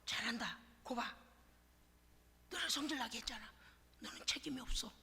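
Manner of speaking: a soft, sly coaxing from the devil; quiet devil voice. Acted. Devil coaxing a believer to blame others, quietly. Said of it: "그럼 마귀가 올 때".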